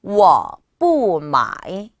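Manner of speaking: 워 뿌 마이 slow and loud, each tone separated; model pronunciation. Shown as a demonstration. Teacher joins the words for learners, slow exaggerated tones. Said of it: "붙이시면".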